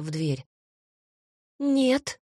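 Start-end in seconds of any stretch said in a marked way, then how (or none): 1.6-2.2 high squeaky no; tiny frightened squeak. Acted. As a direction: squeak it out in panic. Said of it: "пропищала Елана".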